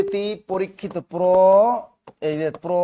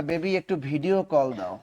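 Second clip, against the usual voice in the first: softer, cooing late-night plea; mock sweet lover's request; 3 semitones lower, 5 dB quieter than usual. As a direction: coax like a lover at midnight. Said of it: "যখনই রাত বারোটা বাজে কয়".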